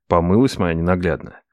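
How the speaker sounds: plain reading voice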